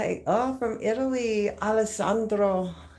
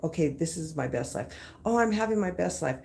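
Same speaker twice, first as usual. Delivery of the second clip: frustrated. Retold or imitated. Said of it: "the frustrated best life".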